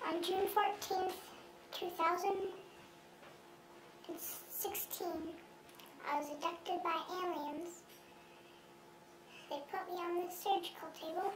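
altered anonymous voice; disguised deep voice. Acted. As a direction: voice disguised to hide identity. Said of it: "his voice has been altered".

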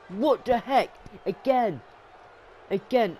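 high, exclaimed disbelief; high-pitched outraged reaction; indignant outburst. Real, not acted. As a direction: protest sharply at the repeated attack. Protesting repeated attack.

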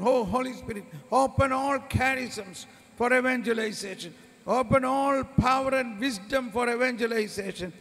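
insistent pleading prayer; fervent prayer. Acted. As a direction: call on the Spirit fervently.

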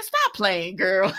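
laughing while calling out; laughing shout. Real, not acted. Yelling at the character on screen, laughing.

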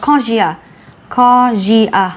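nausea with the au said as O and the s as z; pronunciation demo. Shown as a demonstration. Teacher modelling how nausea is really pronounced, naw-zia. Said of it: "A với U thì luôn đọc là O".

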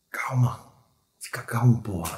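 soft, urgent calming; hushed reassurance. Acted. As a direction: settle a panicking wounded friend. Soothes the wounded comrade.

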